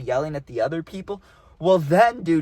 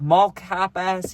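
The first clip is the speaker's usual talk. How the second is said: slow mock yell; 3 semitones higher, 4 dB louder, much slower than usual. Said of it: "one of 'em yelled".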